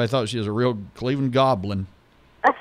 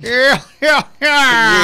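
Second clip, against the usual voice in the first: laughing yeah; 12 semitones higher, 9 dB louder, much slower than usual. Real, not acted. Laughing at the chef joke.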